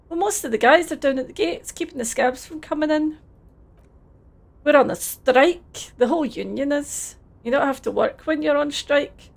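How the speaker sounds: put-on Scottish accent, friendly and a bit overdone; terrible Scottish accent. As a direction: play it as a cheery Scottish lad in a Scottish accent. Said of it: "please enjoy my terrible Scottish accent".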